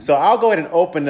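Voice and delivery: talking with gum in mouth; words around a wad of gum; chewing gum. Real, not acted. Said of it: "with gum in my mouth".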